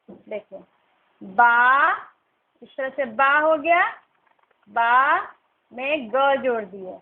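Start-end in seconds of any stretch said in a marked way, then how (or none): none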